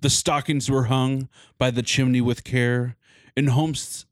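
reading a Christmas poem with drama; dramatic poem reading. Acted. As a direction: recite it like a storyteller. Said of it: "like, dramatic".

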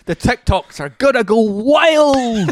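slow, high, laughing delivery; laughing hype. Real, not acted. Podcaster laughing about viral TikToks, slow and high. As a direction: draw it out through laughter.

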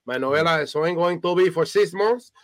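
put-on high, loud, thick Latina accent; Latina mother. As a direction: lay down the law in a Spanish-accented mom voice. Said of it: "she'd be like".

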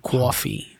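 quick mock New York accent. Shown as a demonstration. Co-host mocking how New Yorkers talk, New York accent. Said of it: "New York is fucking trash".

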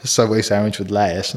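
put-on "a Subway sandwich with lettuce" in a broad Welsh accent; thick Welsh accent. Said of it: "turn the accent on".

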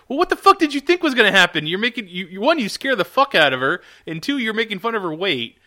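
high, loud, incredulous outburst; exasperated rant. Real, not acted. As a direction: rant at the character in comic exasperation. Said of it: "you just fucking rant about characters".

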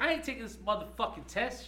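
high, loud defiant yell; imitating the student yelling in class; said all loud. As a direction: belt out the refusal in her voice. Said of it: "she says all loud".

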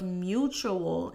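"mutual" drawn out for emphasis; stress on mutual. Real, not acted. Parenting coach underlining what influence requires, stressed "mutual". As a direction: lean slowly on the word "mutual". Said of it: "emphasis on mutual".

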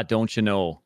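imitation Minnesotan-Wisconsin accent. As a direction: do a folksy Upper Midwest accent. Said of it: "they're actually saying a Wisconsin accent".

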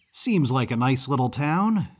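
lightly voiced easygoing kid; a hint of a chatty boy; friendly Yankee boy. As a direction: say it like a pleasant young Northerner. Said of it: "accent of a mid-Atlantic Yankee".

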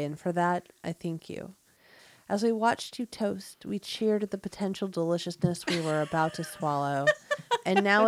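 solemn funeral speech, a touch hammed; mock eulogy. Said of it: "Write a eulogy for a sandwich".

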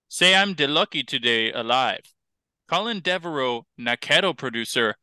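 sing-song read-aloud in pidgin pronunciation; pidgin news reading. Pretend. Host reads a pidgin news story to co-host, lilting read-aloud.

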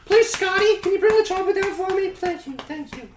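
put-on Hillary with New Jersey accent. New Jersey accent Hillary begging pilot for chopper. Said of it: "strong New Jersey accent".

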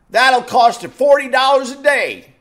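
clerk's price, laughed out high; laughing mock clerk. Comic retelling the clerk's price, laughing. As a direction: laugh through the clerk's line.

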